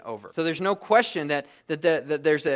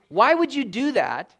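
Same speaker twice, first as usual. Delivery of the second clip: louder, slow, imploring why; pleading; 5 semitones higher, 3 dB louder than usual. Acted. Preacher imploring his congregation, loud slow pleading. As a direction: push the question out hard and slow.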